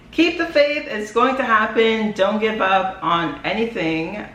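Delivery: slow, earnest pep-talk delivery; rally the viewers like a motivational speaker. Real, not acted. Vlogger urging viewers not to give up, motivational speaker tone. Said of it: "I sound like a motivational speaker right now".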